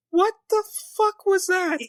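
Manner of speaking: genuinely baffled by the scene; stunned disbelief. Real, not acted. Reacting to the bizarre scene.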